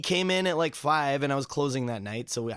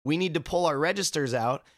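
polite pleading. Retold or imitated. Politely pleading with naked customer.

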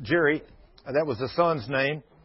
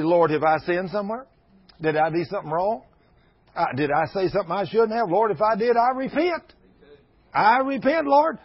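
fervent prayer; 3 semitones higher, 3 dB louder than usual. Retold or imitated. Preacher acts out his own prayer.

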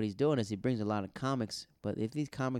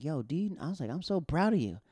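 higher-pitched, mildly gushing praise; retold proud praise; 5 semitones higher than usual. Comic to his friend after her set, proud.

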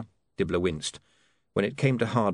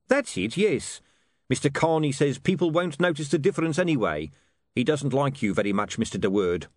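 lightly voiced huckster, higher pitch; higher-pitched salesman making excuses; Dibbler, excusing; 6 semitones higher than usual. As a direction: explain it away, hesitating midway.

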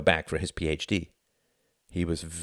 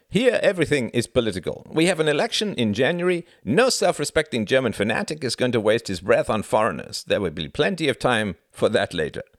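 Klaus voice; 6 semitones higher, 4 dB louder than usual. A narrator's reading. Klaus explains German politics.

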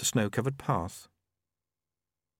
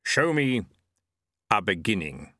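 Death speaking. A narrator's reading. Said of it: "said Death".

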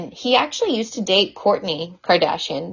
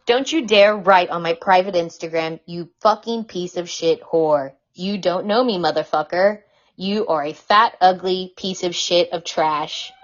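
lightly voiced ranting man; Joe Francis impression. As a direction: read the insults like a mock furious sleaze. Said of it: "my best impression of Joe Francis".

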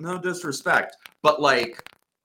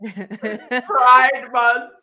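mock outrage; 4 semitones higher, 5 dB louder, much slower than usual. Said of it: "How can you do such a thing".

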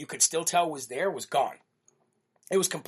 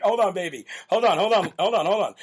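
retold placating; 2 semitones higher, 4 dB louder than usual. Retells calming his outraged wife down.

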